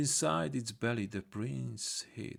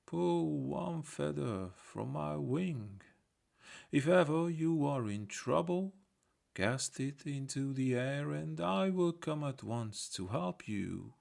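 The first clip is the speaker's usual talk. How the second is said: a grateful raven, voiced a little higher; 4 semitones higher than usual. Raven speaks to the prince.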